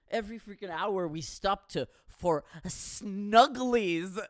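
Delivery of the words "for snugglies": cutesy. Shown as a demonstration. Saying cutesy word.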